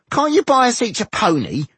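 very high, plaintive character voice; demanding. A narrator's reading. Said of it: "demanded Goimgar".

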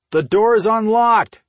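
high, loud drawn-out call. A narrator's reading. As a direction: call it through the house to someone at the door. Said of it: "he called".

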